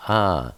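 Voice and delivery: Ah as one open, held vowel; open Ah sound. Shown as a demonstration. Teacher showing how Hey sounds here, open Ah. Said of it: "in this case, is pronounced".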